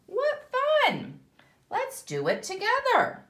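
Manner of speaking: the pollywog thrilled to join in; high eager pollywog voice; delighted. Acted.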